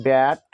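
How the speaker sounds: "ব্যাট" with an open ae vowel. Shown as a demonstration. Teacher giving an example of A, "ব্যাট" with an open ae vowel. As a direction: draw out "ব্যাট" with the vowel of English "bat". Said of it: "এতে এ উচ্চারণ হয়".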